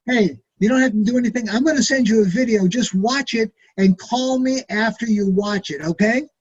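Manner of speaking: fast, eager sales pitch; urgent excited pitch. Shown as a demonstration. Pitching a friend on the business, fast and eager. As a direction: rush it with excitement.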